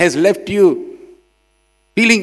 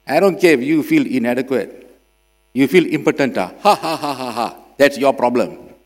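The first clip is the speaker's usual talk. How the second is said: mock callous boss; 3 semitones lower than usual.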